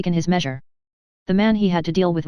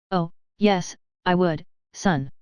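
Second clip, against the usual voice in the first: slow, softer menace with calm certainty; quiet conviction; slower than usual. Acted. Julius threatening the Russian at gunpoint, slow quiet menace. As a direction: lean in and mean every word. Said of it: "something in the voice that carried conviction".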